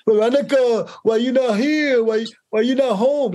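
high, mocking stereotyped Latina mother; hammed-up Latina mom scolding Veronica; mock thick accent. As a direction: overdo a heavy stereotype accent, mocking the casting calls. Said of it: "they all spoke like that".

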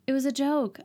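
high, flustered no no no; mock panic taking back the joke; imitated girl hurriedly insisting it was a joke; panicked backpedal. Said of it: "she was like".

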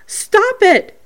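high, loud mimicked command; imitating Vicky. Reading out spirit woman's words, high imitation. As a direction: pitch it way up, mimicking a spirit's protest. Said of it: "And then Vicky says".

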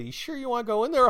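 high, loud, rushed mock warning; alarmed warning. Cop warning unarmed guardsman at roadblock, alarmed. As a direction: imitate a cop in urgent disbelief.

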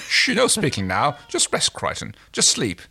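hushing through a laugh. Shown as a demonstration. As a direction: shush him, giggling. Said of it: "Uh, sorry".

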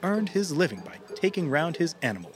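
story narration voice; epic fantasy narrator. A narrator's reading. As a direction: open the tale like a fable narrator.

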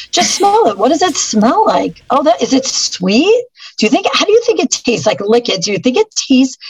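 put-on high, quick, eager voice for a kid; coaxing a child. Shown as a demonstration. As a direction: coax the kid to taste it, bright and playful. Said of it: "I'm like".

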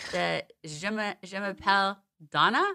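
soft, halting attempt at French; French accent. Shown as a demonstration. Co-host trying again after laughing, tentative French accent. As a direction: stumble quietly into French with the accent. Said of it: "Have a French accent".

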